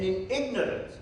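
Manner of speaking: "ignorance" set apart and emphasized; stress on ignorance. Real, not acted. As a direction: lean on the word "ignorance". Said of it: "I'm emphasizing that word".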